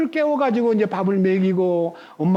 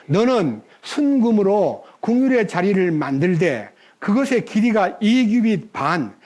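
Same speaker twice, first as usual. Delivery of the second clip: scripture reading. Real, not acted. Preacher reading Exodus to the congregation, measured and declamatory. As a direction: read the verse out deliberately, phrase by phrase.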